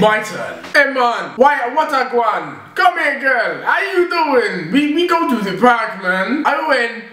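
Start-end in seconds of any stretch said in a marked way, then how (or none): 0.6-6.4 slow mock Jamaican greeting; Jamaican accent. Son trying to outdo his mum, put-on Jamaican. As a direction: lean into a Jamaican lilt, drawing words out. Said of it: "Jamaican, you go first".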